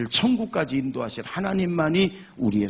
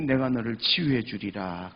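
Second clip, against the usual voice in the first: lightly voiced low, solemn promise; a hint of divine assurance, pitched down; voice of God; 4 semitones lower than usual. God promising healing, lightly voiced as God. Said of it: "하나님이".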